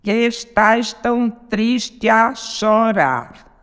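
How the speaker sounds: very slow, syllable by syllable; contando sílabas. Shown as a demonstration. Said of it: "Duas sílabas viram". (escandindo devagar, sílaba por sílaba)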